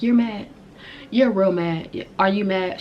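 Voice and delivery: mocking taunt. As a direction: goad them, imitating a taunting rival. Friend taunting her, retold.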